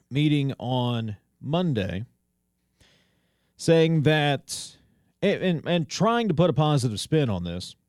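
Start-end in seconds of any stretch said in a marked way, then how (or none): 5.9-7.8 pointed emphasis on "trying"; "trying" picked out as the key word; stress on TRYING. Real, not acted. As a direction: lean on the word "trying" to show doubt. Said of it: "I emphasize the word trying".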